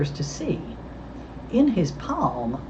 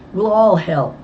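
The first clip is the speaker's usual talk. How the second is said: cheerful, raised and louder; happily pitched up; happy; 4 semitones higher, 7 dB louder, slower than usual. A narrator's reading. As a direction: offer help happily with a lift. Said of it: "Bess said happily".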